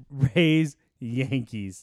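drawn-out hype announcer call. Acted. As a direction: call it like a fight card. Announcing matchups like versus screen.

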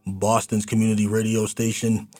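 lifted opening, settling into station ID; polished radio intro; radio host announcing. Real, not acted. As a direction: welcome listeners back from the break. Radio host opens the segment.

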